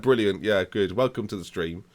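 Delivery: low, deadpan sarcastic welcome; flatly fake-cheerful, dripping with sarcasm; sarcastic reply. Streamer mocking a critic with a low deadpan welcome. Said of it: "It's like".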